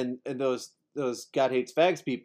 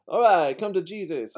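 mock preacher call; 6 semitones higher, 4 dB louder than usual. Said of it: "until they're like".

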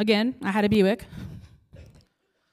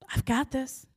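echoing reassurance; 4 semitones higher, 6 dB quieter than usual. Retold or imitated. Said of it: "But I kept hearing it".

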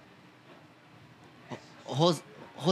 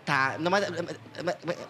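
voice giving out. Real, not acted. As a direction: voice fading away mid-word. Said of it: "Perdi a voz sem querer".

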